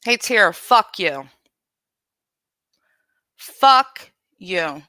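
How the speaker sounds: loud, furious swearing at Tara; angry cursing. Real, not acted. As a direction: spit it out at her, really angry. Cursing out a rival on stream.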